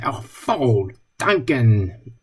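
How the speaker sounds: "Oh, voll tanken" drawn out slowly and savoured; pleased. Retold or imitated. Friends joking over a good moment, delighted. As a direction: say "Oh, voll tanken" like good news just arrived. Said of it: "when something good happened".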